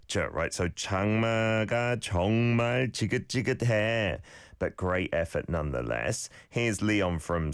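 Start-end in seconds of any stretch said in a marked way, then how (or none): 0.7-4.2 장마가 정말 지긋지긋해 with the ㅈ of 정말 and 지긋지긋해 said as a crisp English-like j; clear j sounds. Shown as a demonstration. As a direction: model each ㅈ in 지긋지긋해 firmly like a j. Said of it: "pronounced a bit more like a j".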